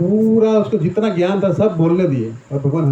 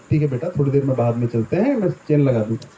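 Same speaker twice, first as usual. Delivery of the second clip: calm father; 4 semitones lower than usual. Retold or imitated. Father calming child.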